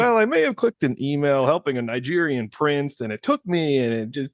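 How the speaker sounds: cheesy training-video confessor; corny sheepish confession. Acted. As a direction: ham up an awkward admission. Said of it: "it's like the corny type of thing".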